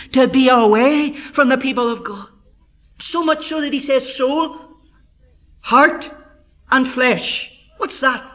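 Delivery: emphatic preaching, hammering out key words; impassioned preaching. Acted. Preacher explains soul, heart and flesh to congregation, emphatic preaching. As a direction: press each point home from the pulpit.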